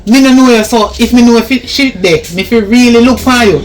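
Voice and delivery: angry scolding. Acted. Helper scolds the stranger at the door, loud and angry.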